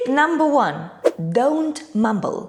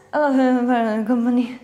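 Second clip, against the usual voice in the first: slow mumbled word; much slower than usual. Acted. Interviewer mumbling to a job candidate. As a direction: drag out a mumbled company.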